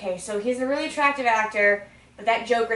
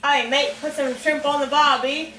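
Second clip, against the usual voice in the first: hammed-up Australian accent. Shown as a demonstration. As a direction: put on a stock Aussie accent.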